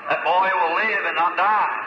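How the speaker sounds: slow, weighty proclamation; slow solemn declaration of the Lord's word; solemn prophecy. Retold or imitated. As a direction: pronounce it like a divine decree, drawn out. Prophet declaring healing over dying boy.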